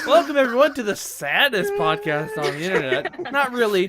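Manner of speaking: tearful welcome starting high and loud; weepy host intro. Real, not acted. Host opens the saddest podcast, weepy. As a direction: push the show opening out through near-tears. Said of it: "crying as usual".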